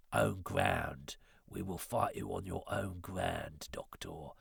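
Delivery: slow, low London accent impression; London-accented Sontaran. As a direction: play a Cockney alien warrior with drawn-out London vowels. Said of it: "but he's London, isn't he?".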